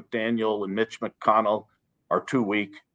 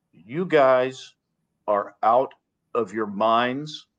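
slow, steady, calm rebuke; measured, slow and calm condemnation; slower than usual. Shown as a demonstration. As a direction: say it calmly, slowly, no heat. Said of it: "let me be very calm when I say that".

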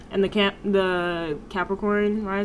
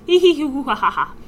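faking madness; 7 semitones higher, 10 dB louder than usual. Pretend. Mocking the landlord's idea of jokes.

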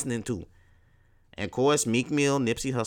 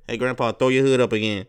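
teasing grandkids; 2 semitones higher, 8 dB louder than usual. Acted. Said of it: "They gonna be like".

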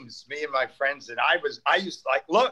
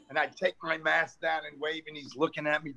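ordinary delivery

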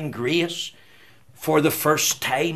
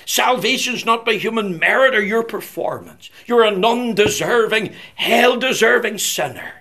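raised, insistent preacher's voice; fervent preaching; 5 semitones higher, 4 dB louder than usual. Real, not acted. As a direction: drive each point home from the pulpit, pitched high.

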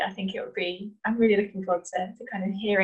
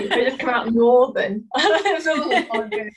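laughing; 4 semitones higher, 6 dB louder, slower than usual. Real, not acted. Laughing at own accent.

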